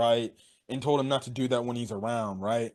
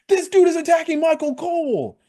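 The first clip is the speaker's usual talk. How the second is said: very high, loud squeal of disbelief; shocked outburst; 5 dB louder than usual. Retold or imitated. Fan reliving the attack on the commentator, shocked squeal.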